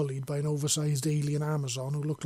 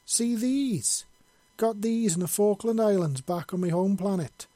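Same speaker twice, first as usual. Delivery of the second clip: higher, louder Scottish tirade; proud angry Scot listing his scars; indignant and proud; 5 semitones higher, 4 dB louder than usual. A narrator's reading. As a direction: boast and scold at once, full brogue. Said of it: "with a mixture of indignance and pride".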